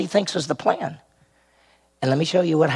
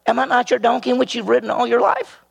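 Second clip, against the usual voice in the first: donkey voice; 8 semitones higher, faster than usual. Acted. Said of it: "The donkey said to Balaam".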